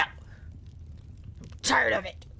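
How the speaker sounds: very slow tired whisper. Retold or imitated. Streamer answering the fans in a slow whisper. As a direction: breathe it out, worn down.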